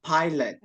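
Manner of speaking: "pilot" as PIE-lut; English pronunciation. Shown as a demonstration. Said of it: "It should be pronounced". ("pilot" dibaca pai-let)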